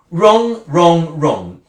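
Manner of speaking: furious then collapsing; angry repetition. Acted. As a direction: hammer it, then drop. Angry outburst at husband.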